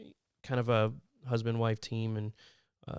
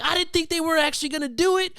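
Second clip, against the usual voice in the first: high, put-on whiny excuse; pitched-up mock defensive voice; mock sheepish friend; 6 dB louder than usual. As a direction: squeak out the excuse like a caught kid. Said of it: "He's like".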